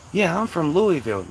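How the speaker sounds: mock an outsider saying Louisville as LOO-ee-vill; outsider mispronunciation. Outsider claiming her city, Louisville mispronounced LOO-ee-vill. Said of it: "You don't know how to say it".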